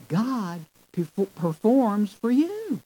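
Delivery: "God performs for you" slowly, with YOU pitched high; emphatic stress. Shown as a demonstration. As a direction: stress "you" high, then let it fall. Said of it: "the emphasis here".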